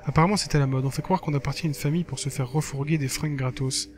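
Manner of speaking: lively reading of a blog entry; lightly performed text narration; diary read-aloud. Acted. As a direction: read it out like a casual teen diary. Reads game diary aloud.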